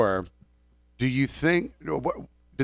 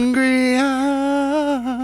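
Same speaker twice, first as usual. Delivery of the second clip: mock dramatic; 10 semitones higher, much slower than usual. Echoing a pleading look joke.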